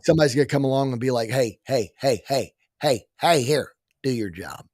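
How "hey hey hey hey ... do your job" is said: put-on gruff Oklahoma accent, ordering; bossy Oklahoma voice telling off. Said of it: "Was that your Oklahoma accent again?".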